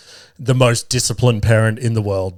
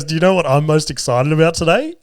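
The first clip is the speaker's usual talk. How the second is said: imitating an overjoyed girl, higher pitched; retold excited question, pitched up; happy, excited girl; 4 semitones higher than usual. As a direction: voice her joy, lightly imitated. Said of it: "So happy. Just so much joy".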